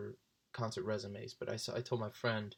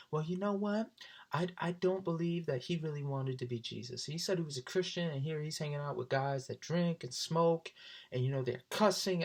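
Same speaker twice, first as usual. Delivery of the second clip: higher, huffy imitation; mock indignant girl; 5 semitones higher than usual. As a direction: rant like a prim churchgoing girl.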